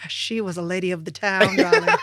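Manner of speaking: camp it up like a worldly lady; fake Vincent and Hedges. Recalling her wild twenties, a lightly played grande dame. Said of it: "This is my fake Vincent and Hedges".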